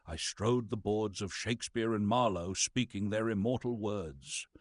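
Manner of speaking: mournful lament. Acted. Mournful memory of the stage.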